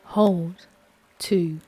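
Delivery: steady, calm counting of breaths; guided breathing count. Acted. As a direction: lead the breath count evenly.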